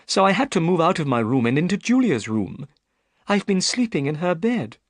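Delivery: put-on a worried young lady pleading her case; Miss Stoner.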